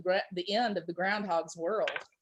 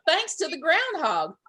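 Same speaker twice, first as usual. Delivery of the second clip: excited chipmunk; 5 semitones higher than usual. Acted. Chipmunk continues yelling.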